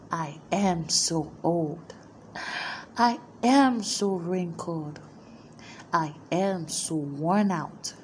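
mildly weary, subdued mock lament; weary self-complaint. Speaker imitates our morning complaint in the mirror, mildly weary. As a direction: grumble softly to yourself, worn out.

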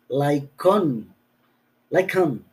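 Like on with a clear break, not linked into likon; words kept apart. Shown as a demonstration. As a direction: separate like from on cleanly. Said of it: "Tiene que ir separadas".

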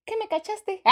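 high, laughing panicked question; mock alarmed question. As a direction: ask like you've been caught. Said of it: "Yo dije".

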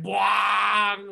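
loud drawn-out mouth-made boom; imitated Galactus boom. Podcaster mimicking Galactus in the trailer, booming noise. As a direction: blare out a giant's movie-trailer sound effect. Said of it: "like, Galactus, like".

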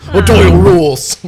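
laughing loud. Real, not acted. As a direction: shout it through laughter. Laughing joke voice.

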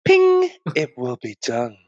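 slow, mock-sultry cooking instructions; Nigella. Finishing the TV-cook impression for co-hosts, mock sultry. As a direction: linger sultrily, with a neat little ping. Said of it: "like, a really sultry voice".

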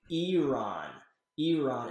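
Iran with an EE start and open AH; ee-RAHN, the careful pronunciation of Iran. Shown as a demonstration. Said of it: "mispronounced, which I've been saying wrong".

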